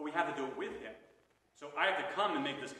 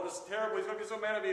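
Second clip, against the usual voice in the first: higher, louder pitch of worry; mock anxious dread; 7 semitones higher, 6 dB louder, much faster than usual. Penitent imagining the priest's anger, mock anxious. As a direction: act out the fear of a scolding. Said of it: "And you're like".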